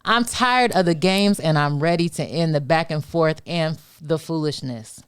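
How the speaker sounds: spoken-word poetry performance; spoken word poem. Acted. Continues performing her poem.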